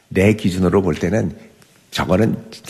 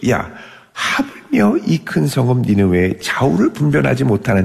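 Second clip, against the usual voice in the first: gentle, merciful asking; 3 semitones higher than usual. Acted. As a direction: ask it tenderly like a patient father. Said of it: "부드럽고 자비롭게 물어보죠".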